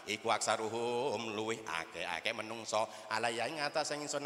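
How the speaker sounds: sing-song pegon translation; pesantren kitab recitation. Acted. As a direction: intone it like a santri reading a kitab. Reciting kitab meaning in Javanese.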